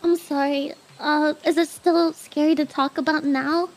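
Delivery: usual speaking voice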